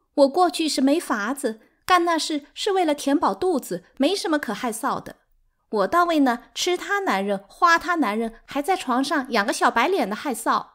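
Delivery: high, loud, plaintive self-defence; heartbroken muttered grievance. A narrator's reading. Sixth wife defending her past to her rival, heartbroken. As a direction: protest it bitterly through hurt. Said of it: "六妈悲伤地哭了".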